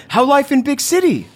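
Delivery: arms wide, beg for a hug; caveman dad, affectionate. Acted. Ron questions his son.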